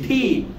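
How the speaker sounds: "ঠি" with a puffed, aspirated t; tongue curled to the palate, release "ঠি" with air. Shown as a demonstration. Teacher demonstrating letter T, aspirated "ঠি". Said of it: "এই ঠটাকে আমি এখানে উচ্চারণ করব".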